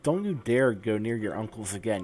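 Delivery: a furious dad shouting down at his son; angry father. Acted. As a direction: bark it like a bitter, angry father. Player voices abusive game dad.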